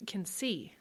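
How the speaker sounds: breathy frightened whisper; barely voiced, afraid to ask; hushed voiceless question.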